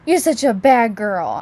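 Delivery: slow, loud, cheerful mock scolding; happy cheerful voice. Shown as a demonstration. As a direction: scold the dog as if praising her. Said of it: "this really happy, cheerful voice".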